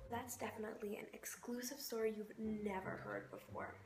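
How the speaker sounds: dry sarcastic whisper; deadpan whispered sign-off. Acted. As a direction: hush it like a smug secret. Sarcastic sign-off after story.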